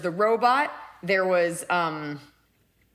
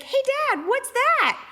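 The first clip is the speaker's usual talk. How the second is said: very high squeaky pet voice; innocent dog voice. Acted. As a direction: pipe up like a clueless little dog. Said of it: "we do this voice 'cause she's so innocent".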